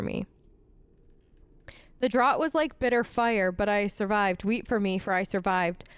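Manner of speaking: understated dramatic journal reading; reading a journal aloud. A narrator's reading. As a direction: read out a bitter noblewoman's diary, restrained. It looks like Sophia's journal.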